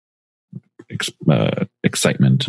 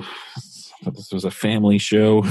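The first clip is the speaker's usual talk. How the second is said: slow, mock-scandalized; mock prim; 3 semitones higher, slower than usual. Objecting to a dirty joke on the podcast, mock prim. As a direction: play the shocked prude. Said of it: "mock prudish objection".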